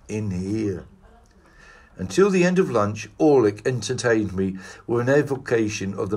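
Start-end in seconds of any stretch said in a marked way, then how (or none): 0.1-0.9 softer, hushed confidential ending; whispered secret. A narrator's reading. Paleontologist wary of being overheard, hushed. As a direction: drop to a secretive near-whisper. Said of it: "he whispered".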